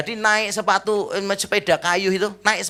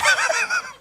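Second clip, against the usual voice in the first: high laugh. Real, not acted. After the punchline.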